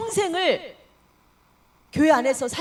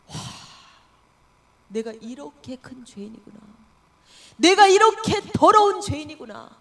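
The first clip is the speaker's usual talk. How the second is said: anguished realization; 6 dB louder than usual. Acted. Sinner realizing own sin.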